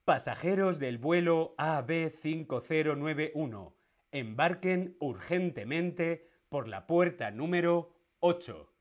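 airport announcement read out; over the intercom. Acted. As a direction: announce it like the tannoy. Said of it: "el anuncio por megafonía dice".

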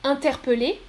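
interpeller as "in-ter-pe-lé"; first variant. Shown as a demonstration. Teacher repeats choice one, interpeller with schwa. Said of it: "Je répète, écoutez bien".

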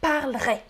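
parlerai said as two syllables, parl-rai; dropped E. Shown as a demonstration. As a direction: cut the E in parlerai, run l into r. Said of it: "On coupe le E". (« parlerai » sans le E, parl-rai)

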